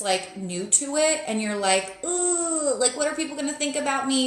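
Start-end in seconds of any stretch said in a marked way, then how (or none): 2.0-4.3 higher-pitched, hammed-up self-conscious fretting; mock anxious. Beginner reader fearing others' judgment, mock anxious. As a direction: fret like a nervous newcomer, playfully exaggerated.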